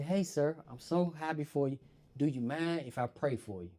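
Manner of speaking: quiet gentle orderly; soft kind orderly. Retold or imitated. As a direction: ask it softly and kindly. Orderly asks to pray.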